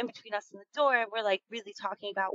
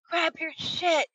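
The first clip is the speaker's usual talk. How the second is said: retold yell; 8 semitones higher, slower than usual. Friend ordering the group to flee, high urgent mock yell. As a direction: snap the order to get out now. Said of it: "just yells".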